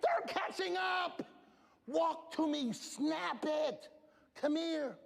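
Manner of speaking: high urgent calling; urgent coach shout. Retold or imitated. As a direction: hurry her up, they're catching up. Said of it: "I said".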